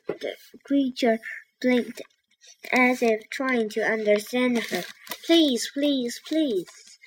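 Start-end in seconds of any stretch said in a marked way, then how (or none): 5.2-7.0 high, insistent storybook plea; pleading shout. A narrator's reading. Annie begs the blinking octopus again, pleading shout. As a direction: cry out each word, pitched up, first one loudest. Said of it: "she shouted".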